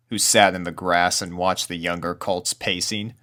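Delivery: ordinary delivery, nothing marked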